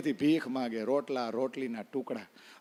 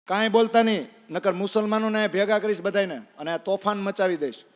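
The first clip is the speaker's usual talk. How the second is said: threatening shout; 4 semitones higher, 4 dB louder than usual. Retold or imitated. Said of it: "માંડ્યો કેવા".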